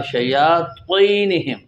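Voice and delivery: شَيَاطِينِهِمْ with a full heavy ط, tongue pressed to the palate. Shown as a demonstration. Teacher demonstrating the ط of شَيَاطِينِهِمْ. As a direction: give the ط in شَيَاطِينِهِمْ full weight. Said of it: "او کو خوب پوری زبان کو اوپر کے تالو کو لپیٹنا ہے".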